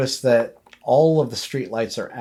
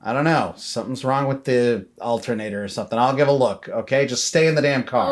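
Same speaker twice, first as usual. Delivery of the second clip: a touch of an irritated dad, a bit louder; gruff dad; 2 semitones higher, 5 dB louder than usual. Acted. Dad snapping at his kids to stay in the car. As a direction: brush the kid off, annoyed.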